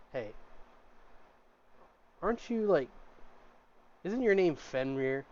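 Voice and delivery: hushed starstruck server, slowed down; leaning in, hushed. Acted. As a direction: lean in and ask it quietly. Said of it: "leans in, and he goes".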